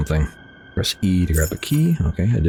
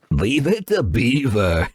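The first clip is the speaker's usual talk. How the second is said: slow, laughing through the words; laughing repeat; 4 semitones higher, slower than usual. Pretend. Gamer repeating the odd line to himself, laughing. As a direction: chuckle while saying it. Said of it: "Why did I say it like that?".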